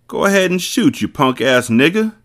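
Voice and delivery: sneering monster taunt; coarse voice. Acted. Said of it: "T-Bone said in a coarse voice".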